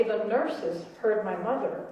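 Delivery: ordinary talk, nothing marked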